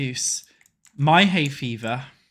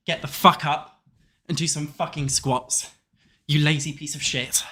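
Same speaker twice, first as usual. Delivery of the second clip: tough motivation. Acted. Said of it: "that tough motivation".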